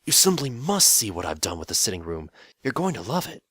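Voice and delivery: eager, rising excitement; gushing. Acted. The Demon King showing off his sitting room to Phil, gushing. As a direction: sell the room, thrilled.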